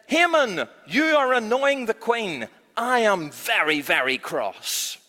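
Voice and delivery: a hammed-up royal telling-off; king catches Haman at the queen's feet; cross king.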